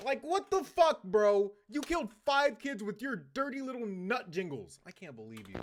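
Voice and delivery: high, loud scolding in disbelief; hammed-up indignant accusation, pitched right up; mock outrage. Streamer accuses the killer of five kids, in mock outrage. Berates the imagined culprit directly.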